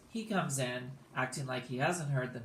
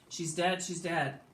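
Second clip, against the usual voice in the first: higher-pitched mock holler; raised, alarmed storyteller's cry; 5 semitones higher than usual. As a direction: call out the news in acted alarm.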